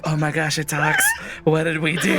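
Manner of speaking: alarmed. Retold or imitated. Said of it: "Kaneki at this point, like".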